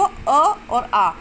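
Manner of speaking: short अ, then आ stretched to double; teacher's demo of short अ against long आ; short versus long vowel. Shown as a demonstration. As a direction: slowly show अ as brief and आ as lengthened. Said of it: "आ में double समय लग रहा है".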